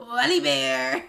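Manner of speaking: slow words through laughter; laugh-cry the words out. Real, not acted. Laughing while saying name.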